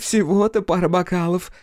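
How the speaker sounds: high tipsy brush-off; dismissive. Acted. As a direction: wave it away drunkenly. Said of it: "отмахнулась она".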